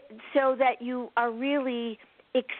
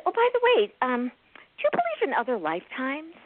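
bright retold question; 4 semitones higher than usual. To a client afraid of dying, a high chirpy question. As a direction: perk up and ask it lightly.

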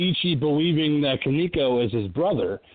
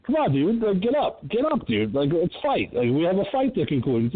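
coaxing Karihara; 3 semitones higher than usual. Retold or imitated. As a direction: urge him up like a desperate rival. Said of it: "Karihara trying to pick him up and go".

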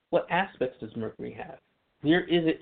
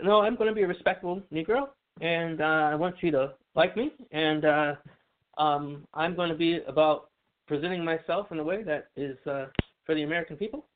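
light impression of a politician, slightly raised pitch; Obama; 3 semitones higher than usual. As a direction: lightly imitate a measured presidential speaker. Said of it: "Is that your Obama impression?".

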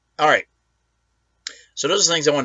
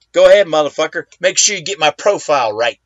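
defiant dare; 4 dB louder than usual. Pretend. Defiant taunt at Biden.

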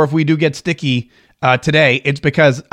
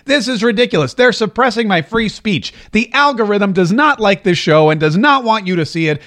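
higher-pitched, mock railing at the platform; retold indignant rant; 4 semitones higher than usual. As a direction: imitate your own outraged complaining, without really yelling. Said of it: "I've sat on here and yelled and railed".

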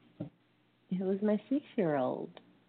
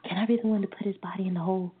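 put-on excited child; 4 dB louder, much faster than usual. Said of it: "just was super excited".

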